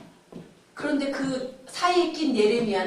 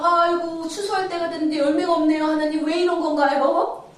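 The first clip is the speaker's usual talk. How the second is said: mock wailing grumble, pitched up; higher, quick acted complaint; blaming complaint; 4 semitones higher, 4 dB louder than usual. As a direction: imitate people whining to God. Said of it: "하나님을 탓하는 거예요".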